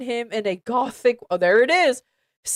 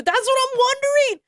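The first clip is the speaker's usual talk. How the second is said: exasperated outburst; 13 semitones higher, much faster than usual. Real, not acted. Reader exasperated at fanfic spelling.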